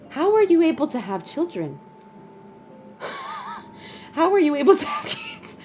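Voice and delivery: incredulous. Real, not acted. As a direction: ask it in stunned, rising disbelief. Stunned by viewer's injury story.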